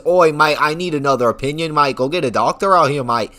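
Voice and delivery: mock British accent slipping toward Australian; hammed-up Brit accent, a bit Australian; botched British accent. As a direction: put on a rough British "oi, mate" accent. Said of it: "More of an Australian accent".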